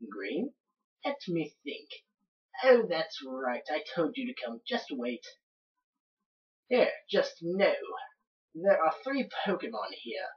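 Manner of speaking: lightly voiced Australian old professor; somewhat Australian accent. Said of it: "giving him somewhat of an Australian accent".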